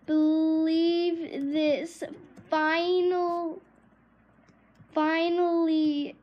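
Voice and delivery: slow, stretched-out disbelief; excited. Real, not acted. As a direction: draw the words right out in excitement. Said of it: "I'm so excited".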